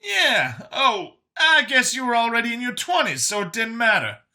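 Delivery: high, animated chatter; Brian, chatty rejuvenated survivor. Acted. Brian musing on getting his youth back, high and chatty. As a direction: rattle on high and upbeat.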